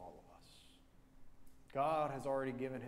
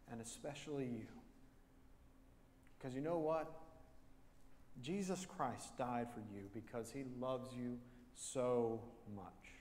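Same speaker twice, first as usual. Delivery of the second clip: tender comfort. Retold or imitated. Lady comforting man tenderly.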